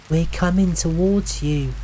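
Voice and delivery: high call that carries. A narrator's reading. Navigator to lost stranger, calling out. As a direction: call ahead to someone unseen. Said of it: "Katie called out".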